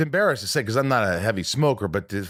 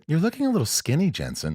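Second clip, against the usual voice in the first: teasing makeup artist; 6 semitones higher than usual. Retold or imitated. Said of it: "your makeup artist said".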